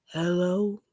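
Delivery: soft, drawn-out singer-style hello; a hint of a famous singer's hello. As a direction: lightly imitate a pop ballad singer, softly. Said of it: "In my singer voice".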